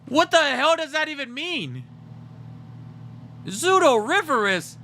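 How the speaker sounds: high squeaky pet voice. Acted. Voicing the pet's complaint.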